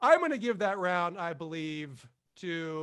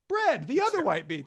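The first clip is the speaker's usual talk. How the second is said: laughing repeat; 5 semitones higher than usual. Shown as a demonstration.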